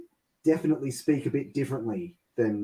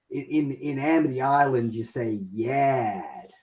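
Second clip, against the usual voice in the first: put-on New York accent. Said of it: "his wife says to Chief Brody".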